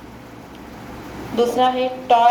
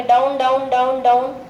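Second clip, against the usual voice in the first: quick drill of down down; fast repetition. Shown as a demonstration. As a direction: chant it fast for the children. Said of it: "आपको fast बोलना है". (जल्दी जल्दी दोहराना)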